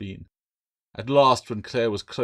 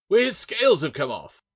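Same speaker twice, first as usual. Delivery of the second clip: higher and louder, crying out in wonder; excited shout; 10 semitones higher, 8 dB louder than usual. A narrator's reading. Jackson pointing out the bare scales, loud excited shout. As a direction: shout it out, amazed. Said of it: "Jackson shouted".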